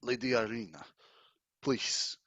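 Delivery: lightly voiced courtly vampire count, pleading. Count begging Lady Irina not to fear him, courtly plea. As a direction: play an earnest count with measured pauses.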